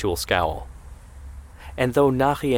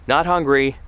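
raised, higher short reply; calling back; 6 semitones higher, 5 dB louder than usual. A narrator's reading. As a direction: call back from another room. Son calls back from the hallway.

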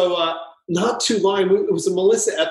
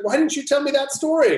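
mock exasperated Jessica; 10 semitones higher than usual. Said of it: "she's like".

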